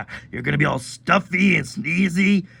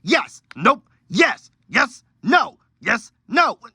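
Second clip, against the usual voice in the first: rapid teasing back-and-forth; 6 semitones higher, 4 dB louder, slower than usual. Acted. Looney Tunes trick, rapid back-and-forth.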